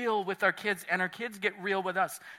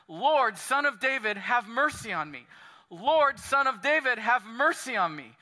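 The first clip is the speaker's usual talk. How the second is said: raised, higher cry of a blind beggar calling out; mock shout; 4 semitones higher, 4 dB louder than usual. Blind Bartimaeus crying out to Jesus by the roadside, mildly shouted plea. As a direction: call out for mercy, lightly hammed up. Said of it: "he shouts out".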